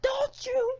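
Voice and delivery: high hammed-up whiny plea; fake-sob the question up high; mock whimper. Host fake-crying at Mother Nature, high whiny mock sob. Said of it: "You're making me so sad".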